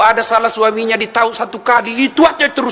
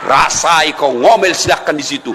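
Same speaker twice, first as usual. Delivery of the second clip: smug husband; 5 semitones lower than usual. Acted. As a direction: savour it like finally getting revenge. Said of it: "didorong suaminya masuk". (suami puas, pelan dan mengejek)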